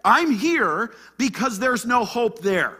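high, loud cry of hopelessness; Elijah's despair. Acted. Elijah tells God he has failed, loud despair. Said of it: "See what Elijah's saying here?".

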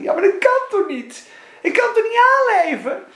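high worried pleading voice; pleading believer. Acted. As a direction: plead like a frightened child. Believer protesting to God, higher.

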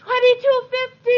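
high, loud excited bid; eager bid. Acted.

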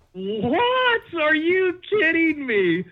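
high, slow, loud what; outraged disbelief. Retold or imitated. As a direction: hit it with stunned outrage. Outrage at friend's excuse.

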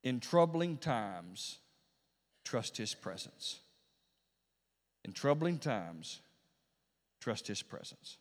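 very slow, deliberate counsel, softening at each end; measured reassurance. Retold or imitated. Bishop counsels a brother in troubling times, slow reassurance. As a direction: say it slowly, letting the close drop away. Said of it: "And I said to him".

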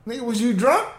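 high, disbelieving what; shocked and amused; surprised. Real, not acted. Shocked reply to accusation.

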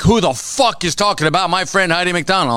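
retelling an online fight, mock furious; mock angry outburst. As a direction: imitate an offended tough guy.

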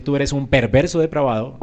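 hard, accusing tone on "Tú eres un perverso depravado"; blunt accusation. Shown as a demonstration. Preacher showing the harsh way to tell a sinner, blunt and accusing. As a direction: throw "perverso depravado" at them like a charge. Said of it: "pero con un tono diferente".

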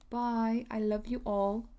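light mock British accent. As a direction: say goodbye in a playful British accent. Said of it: "stop doing that British accent".

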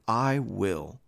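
understated compassion in a read quote; moved with pity. A narrator's reading. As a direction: gently grant the request, pausing midway. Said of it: "Moved with pity".

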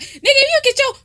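high loud mock rant; mock telling off. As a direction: tell him off, sassy. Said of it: "she just go off on him like".

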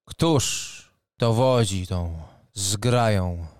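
formal booming knight captain; proud knight. Acted. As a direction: announce yourself with noble pride. GM voices knight Leopold.

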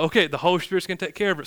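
put-on quick, tossed-off country accent; mock country accent. Lazy preacher leaving it to the Spirit, mock country accent. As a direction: make fun in a hurried country accent. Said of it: "I'm doing a country accent when I make fun of those guys".

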